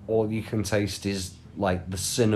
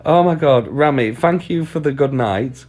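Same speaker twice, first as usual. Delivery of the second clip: excited thanks; 4 semitones higher, 7 dB louder than usual. Real, not acted.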